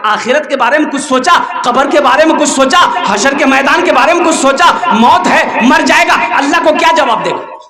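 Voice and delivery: imam's rising volley of questions; acted admonition, building in pitch; mildly stern admonishing. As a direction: press each question a little harder, like a preacher. Imam admonishing the buffalo keeper.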